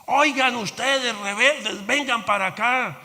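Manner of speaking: a hint of a stern calling Jesus. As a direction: summon the rebels to shore. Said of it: "Entonces Jesús les dijo".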